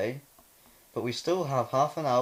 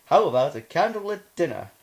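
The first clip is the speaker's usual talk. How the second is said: put-on louder, higher girly voice; feminine voice; 5 semitones higher, 7 dB louder than usual. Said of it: "You do more feminine voice".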